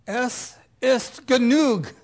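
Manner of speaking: loud, slow, high German exclamation. Acted. Prophet exclaims he has had enough, mock German voice. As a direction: proclaim it in a hammed-up German accent. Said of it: "in his best German voice".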